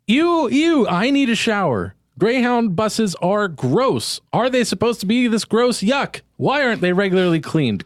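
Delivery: high-pitched, grossed-out read; acted disgust. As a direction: read it as a hammed-up revolted complaint. Reading a disgusted tweet aloud.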